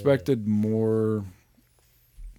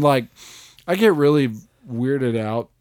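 ordinary delivery

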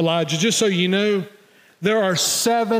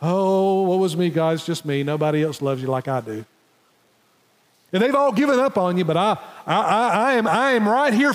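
mock whining Elijah; mock self-pity; 3 semitones higher than usual. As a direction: ham up a sulky pity party. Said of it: "The pity party here".

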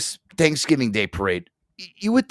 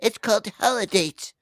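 high, excited-mom impression in a light voice; high-pitched mock mom recommending a film; imitating mom; 12 semitones higher, 3 dB quieter than usual. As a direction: put on your mom's high voice, urging a movie on you. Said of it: "my mom was like".

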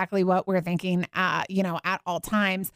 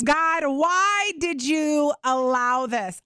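slow pleading question; 2 semitones higher, much slower than usual. Pretend. Voicing the question to God.

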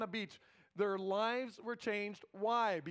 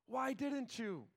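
slow pleading cry; 4 semitones higher, much slower than usual. Retold or imitated. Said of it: "cried out to his God saying".

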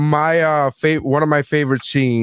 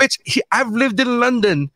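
higher-pitched retold sassy comeback; mock indignation; 8 semitones higher than usual. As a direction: play her as affronted and scolding. Retelling Diana's indignant comeback.

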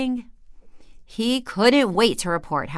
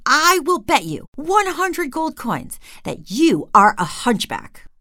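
higher, louder and slow, a king's challenge; roaring; 8 semitones higher, 5 dB louder, slower than usual. Acted. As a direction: lay down the wager like a threat. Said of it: "the king roars".

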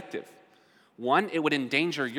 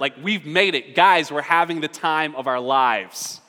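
giddy; 5 dB louder than usual. Retold or imitated. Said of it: "He's very giddy right now".

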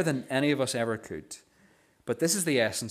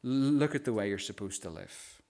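gentle rebuke; 5 dB quieter than usual. Retold or imitated. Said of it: "that's how Jesus responds to us".

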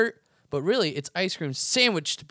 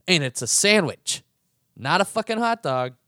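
much louder, hammering the point home; loud triumphant rant; emphatic shout; 4 semitones higher, 7 dB louder than usual. Real, not acted. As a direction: declare it like the final word. Clinching the sub argument.

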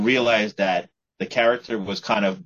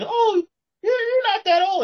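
high-pitched surprised onlooker. Acted. Acting out an onlooker's reaction.

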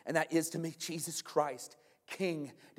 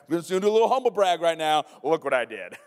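mock humble brag; 7 dB louder, faster than usual.

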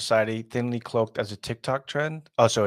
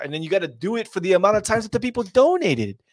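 fast excited rush; 8 semitones higher, 5 dB louder, faster than usual. Real, not acted. Excited rush describing the trend.

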